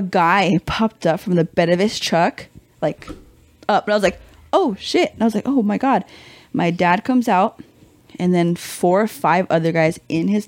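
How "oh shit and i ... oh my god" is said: higher-pitched stunned exclamation; mock shock. Daughter seeing men pop out of truck, mock shock. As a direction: react with rising comic alarm.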